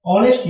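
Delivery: ऑनेस्ट begun straight on the vowel; silent H. Shown as a demonstration. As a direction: drop the H at the start of ऑनेस्ट. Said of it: "यहाँ पर भी एच silent है". (ऑनेस्ट में एच silent)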